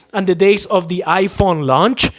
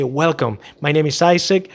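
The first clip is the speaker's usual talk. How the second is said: welcoming greeting; 2 semitones lower than usual. Shown as a demonstration. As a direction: greet the customer calmly. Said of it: "and say".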